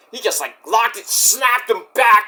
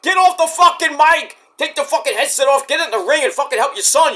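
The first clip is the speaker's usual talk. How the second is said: mock angry rant; 7 semitones higher than usual. Yelling at Taz on commentary.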